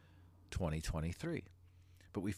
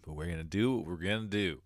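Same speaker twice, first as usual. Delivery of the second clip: blocked nose, stuffy voice; 4 dB louder than usual. Real, not acted. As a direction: talk through a stuffy nose. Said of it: "I sound a little stuffy".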